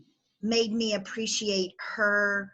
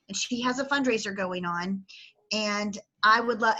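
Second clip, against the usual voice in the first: close to tears; 4 semitones higher than usual. Real, not acted. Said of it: "I'm gonna cry".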